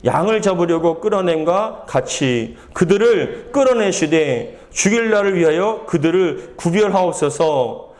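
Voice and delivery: slow, measured Bible reading; scripture reading. A narrator's reading. Pastor reads Jeremiah's plea to the congregation, solemn scripture reading. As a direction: read the verse out deliberately, phrase by phrase.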